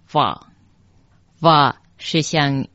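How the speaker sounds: "哇" said va, with an English V; pronounced va. Shown as a demonstration. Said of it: "读咒语的时候读成哇".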